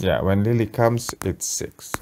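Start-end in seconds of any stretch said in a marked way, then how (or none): 1.2-1.9 echoing whisper. Retold or imitated. Parent whispering back the child's count.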